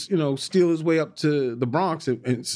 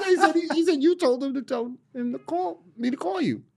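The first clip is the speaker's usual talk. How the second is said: laughing through it; 12 semitones higher than usual. Retold or imitated. The speaker laughs while quoting himself.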